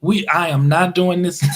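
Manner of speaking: shouted, half-laughing refusal; mock refusal shout. Telling his sister he won't start another conversation, shouted. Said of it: "I'm like".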